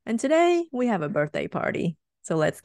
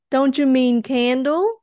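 eager question; 5 semitones higher, 5 dB louder than usual. Acted. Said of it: "we asked".

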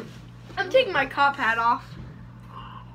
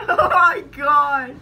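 laughing; 6 dB louder, slower than usual. Real, not acted. Laughing fit.

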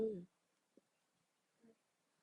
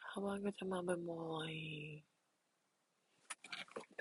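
slow, very soft and far-off delivery of ถ้าว่างก็จะมาบ่อยๆ; drawn-out soft mumble; very quiet; 12 dB quieter, much slower than usual. Real, not acted. Streamer to chat, answering in a very soft slow voice. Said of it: "ทำไมพูดเสียงเบาจังวันนี้".

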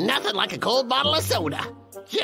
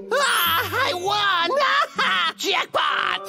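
excited win; 8 semitones higher, much slower than usual. Acted. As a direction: squeal over winning. Wins free box.

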